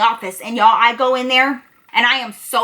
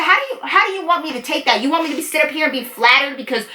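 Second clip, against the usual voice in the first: high, fast and furious; heated arguing; 3 semitones higher than usual. Retold or imitated. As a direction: argue him down in the hallway. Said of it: "I'm being loud as fuck".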